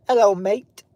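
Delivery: lightly put-on Australian hail; Australian accent. Shown as a demonstration. Streamer trying out an accent for the chat, Australian accent. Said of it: "that's probably Australian right there".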